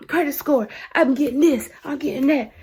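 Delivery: high mock protest in short bursts; mocking boast. Mimicking the man denying he is broke, high mock boast.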